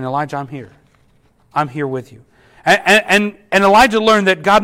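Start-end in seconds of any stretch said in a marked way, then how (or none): 0.0-2.2 soft and low reassurance; whispered word. Acted. God comforting exhausted Elijah, soft and low. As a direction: breathe it gently, close by. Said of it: "through just a whispered word".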